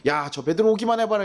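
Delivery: hammed-up angry challenge; fuming crowd. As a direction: huff at Peter like an angry mob. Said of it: "씩씩거리면서 있어요".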